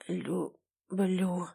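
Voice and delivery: weak, soft, barely there; last words from a dying man; dying husband whispering love to his wife; faint dying confession. A narrator's reading.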